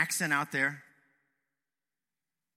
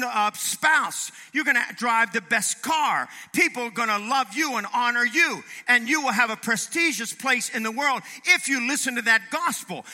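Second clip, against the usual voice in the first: raised, driving preacher's delivery; impassioned preaching; 6 semitones higher, 6 dB louder than usual. Acted. Preacher reeling off prosperity gospel promises, impassioned. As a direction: pile it on, loud and high.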